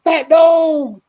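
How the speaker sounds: excited high call across the house; calling the dog. Retold or imitated.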